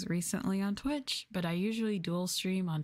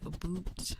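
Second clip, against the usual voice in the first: Canadian "a boot" for about; slow Canadian vowel on "a boot"; Canadian accent. Retold or imitated. Streamer showing when Canadians can be heard, Canadian accent. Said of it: "that's when you can hear the accent".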